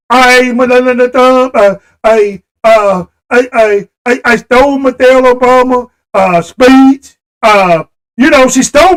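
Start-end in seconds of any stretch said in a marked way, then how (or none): 0.1-7.2 stumbling mock Melania, stammering. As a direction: parody her halting delivery. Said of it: "that's the way she talked".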